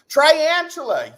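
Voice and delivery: Triantula said loud, high and slow, with "try" up front; mock mispronunciation. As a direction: announce Triantula with a long "eye" in the first syllable. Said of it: "I was trying to mock you".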